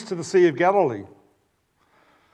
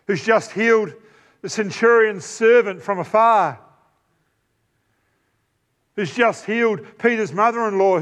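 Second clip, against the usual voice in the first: higher, rising insistence with each miracle; building emphatic preaching; 3 semitones higher than usual. Acted. Preacher challenging the congregation, building with each miracle. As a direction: stack the miracles, pressing harder each time.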